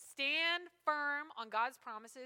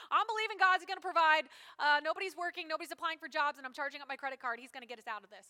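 mocking foolish believer; 6 dB louder, faster than usual. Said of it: "believing God and being stupid".

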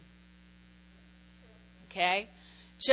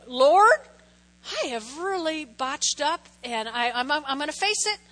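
prayer; 2 semitones higher than usual. Pretend. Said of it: "you go".

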